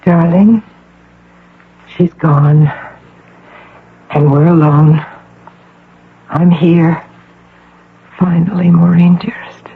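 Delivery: hushed whisper to the patient. Acted. Visitor whispering to the sick girl, hushed.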